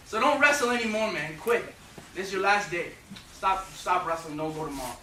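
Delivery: high, loud, blunt Irish mother scolding; Irish mom. Retold or imitated. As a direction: tough love, no sympathy at all. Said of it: "with all that Irish love in her eyes and she goes".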